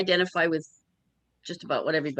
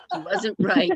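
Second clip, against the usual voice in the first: laughing; 13 semitones higher, 6 dB louder than usual. Real, not acted. Laughing at the witch's defeat.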